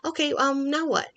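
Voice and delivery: be the dog surprised at being called away; voicing the dog. Trainer voicing a confused dog asking Mom what is going on, high and loud. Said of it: "They're like".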